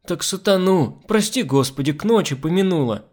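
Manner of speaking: superstitious maid. Acted. Pious maid explains her fright.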